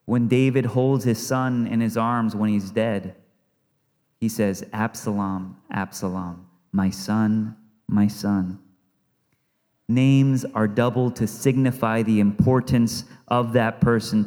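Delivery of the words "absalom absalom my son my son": grieving lament. Acted. David grieving over dead son.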